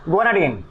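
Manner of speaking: Guanidine with a long ee, "gwa-na-DEEN"; "-deen" ending. Shown as a demonstration. Teacher correcting students after warning them off "dine", Guanidine with "-deen". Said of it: "डाइन मत बोलना।".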